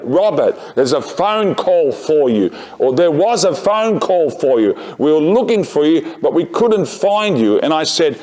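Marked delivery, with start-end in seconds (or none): 0.0-2.5 higher-pitched mimed shout from a window; calling out. Retold or imitated. Office worker calling a teacher out the window, mimed shout. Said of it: "He just shouts out of the window". 2.9-7.6 raised-pitch imitation of calling from a window. Office worker calling to a teacher on duty, mimed shout. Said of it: "He just shouts out of the window".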